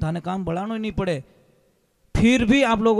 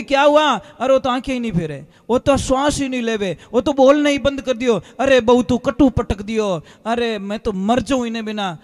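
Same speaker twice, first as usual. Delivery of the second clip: acted frantic wail, somewhat raised voice; retold distraught crying out; 3 semitones higher, 5 dB louder than usual. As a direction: play an old mother crying out over her child. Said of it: "इतनी चिल्ला रही". (घबराकर चिल्लाने का अभिनय)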